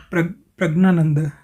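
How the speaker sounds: "prag-", then प्रज्ञानंद as "prag-naanand"; spoken pronunciation. Shown as a demonstration. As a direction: say प्रज्ञानंद with no i after p, hard g plus n. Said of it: "इसका उच्चारण ये करेंगे".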